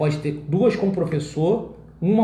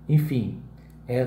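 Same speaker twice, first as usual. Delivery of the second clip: ordinary talk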